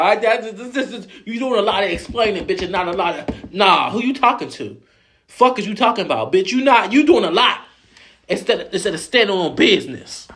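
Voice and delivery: hammed-up high-pitched tirade; mock bullying rant. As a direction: keep roasting her while laughing. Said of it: "they bullied the fuck out of".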